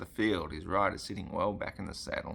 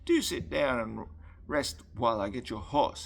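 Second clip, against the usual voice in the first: higher, louder, mildly anxious urging; 5 semitones higher, 5 dB louder than usual. A narrator's reading. Boy urging the dripping stranger to rest, mildly anxious. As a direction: urge him with a touch of worry. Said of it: "he said anxiously".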